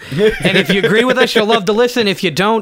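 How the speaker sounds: put-on American accent. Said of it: "let's do this all American real quick".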